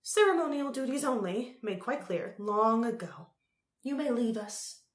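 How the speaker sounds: high, loud regal dismissal; announcing Empress. A narrator's reading. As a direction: send them away imperiously. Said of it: "announced the Empress".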